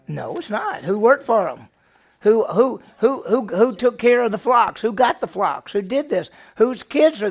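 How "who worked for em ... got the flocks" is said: ordinary talk, nothing marked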